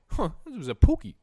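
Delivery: high, loud giggly voice; high, loud cackle of a man amused by his find; laughing homeless man. Retold or imitated. Homeless guy laughing at his find, high loud giggle. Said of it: "He's, like, laughing".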